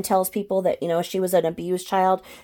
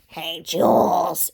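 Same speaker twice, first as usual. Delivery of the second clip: fake voice; much slower than usual. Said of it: "it's a really fake voice".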